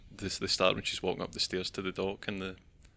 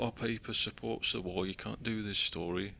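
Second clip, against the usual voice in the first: a weak attempt at a Cockney newspaper editor; a half-hearted Cockney accent, kept close to his own voice. Mimicking the sleazy editor in a faint Cockney accent. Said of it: "I can't do a Cockney accent either".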